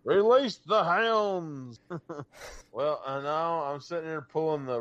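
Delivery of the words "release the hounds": slow, grand, mock-lordly command; aristocratic hunt call. The speaker playing a lord at a fox hunt, slow and grand. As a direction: declaim it like a fox-hunting lord. Joking about fox hunting.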